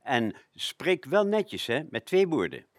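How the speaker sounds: lightly voiced strict mother; stern parent. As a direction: correct a child's manners, mock strict. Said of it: "gezegdes van onze ouders".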